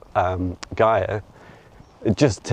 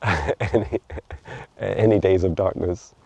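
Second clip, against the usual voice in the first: talking tree; slower than usual. Pretend. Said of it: "The tree says".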